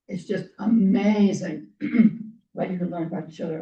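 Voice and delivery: strained, failing voice; losing voice. Real, not acted. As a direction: speak as the voice gives out. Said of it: "I'm losing my voice".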